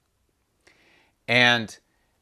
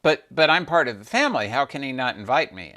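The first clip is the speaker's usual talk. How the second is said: upset Sati; 3 semitones higher, faster than usual. Acted. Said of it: "And Sati said".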